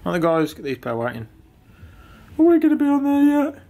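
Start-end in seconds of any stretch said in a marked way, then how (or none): 2.4-3.6 high, loud call. Real, not acted. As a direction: shout it across the room. Calling out to someone.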